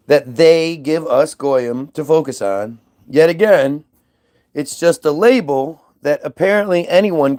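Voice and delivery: measured, emphatic declamation; emphatic speech with pauses between phrases; reciting a memo. Real, not acted. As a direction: deliver it like a prepared statement, punching key words. Recites a memo posted to people.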